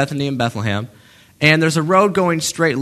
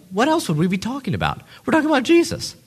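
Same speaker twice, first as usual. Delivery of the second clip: duh moment; 7 semitones higher, faster than usual. Retold or imitated. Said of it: "this duh moment".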